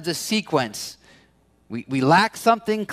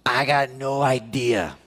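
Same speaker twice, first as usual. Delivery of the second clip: low, slow, resigned shrug of a voice; helpless admission; 6 semitones lower than usual. Retold or imitated. Leader admitting to followers he's lost, low and resigned. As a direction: give up, out of answers. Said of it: "And you're like".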